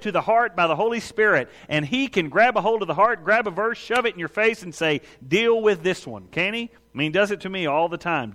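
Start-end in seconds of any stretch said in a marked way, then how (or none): 5.3-6.3 firm, slowed command in usual pitch; acted insistent order. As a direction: put it to the listener squarely and slowly. Voices the Spirit confronting the listener.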